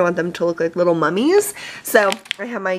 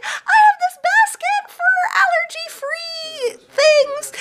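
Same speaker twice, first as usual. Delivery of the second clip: laughing. Retold or imitated. Retelling her cheerful answer to kid.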